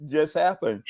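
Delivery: slow, puzzled question; baffled studio guy. Retold or imitated. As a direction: drag it out, lost. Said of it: "looking at me like".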